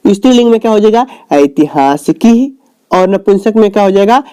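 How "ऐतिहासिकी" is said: drawn-out ऐतिहासिकी; slow model pronunciation. Shown as a demonstration. Teacher giving the class the feminine form, slowly sounded out.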